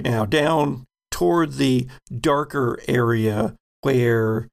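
measured scene-setting, pausing between phrases; game master narration. Acted. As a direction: set the scene for the players unhurriedly.

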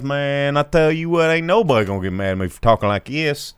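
loud, high hammed-up redneck twang; broad redneck accent, hollering and confident. Shown as a demonstration. Host showing which accents are okay to do, redneck accent. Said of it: "you can do redneck".

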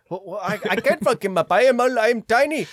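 high, fast, loud protest; hammed-up little guy panicking in a high voice; tiny helpless underdog. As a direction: squeal that you're too small to fight. Acts out tiny country refusing.

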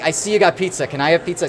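put-on a tired French media guy begging for pizza in a mild French accent; heavy French accent. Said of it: "a f-, heavy French accent".

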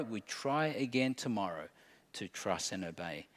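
lightly voiced God comforting a failing child; gentle father. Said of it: "how a father will speak to his child".

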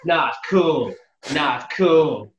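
repeated flat game line; Negan quote. Retold or imitated. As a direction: parrot the game character. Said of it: "he says".

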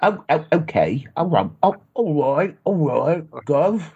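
a bad cockney stab ending in gov; fake cockney. American practising a bad cockney accent on his friend. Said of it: "I'm gonna have to".

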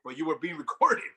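joking, laughing through the words; can't keep a straight face. Real, not acted. Cohost joking that Trump gets a pass, laughing.

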